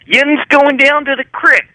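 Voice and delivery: high, slow, thick Erie accent. Shown as a demonstration. Showing friends how Erie talks, high thick accent. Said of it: "This is how people in Erie talk".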